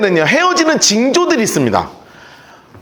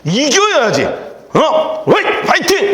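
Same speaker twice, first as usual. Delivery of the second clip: pep talk; 3 semitones higher, slower than usual. Retold or imitated. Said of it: "뭐라 그랬냐면".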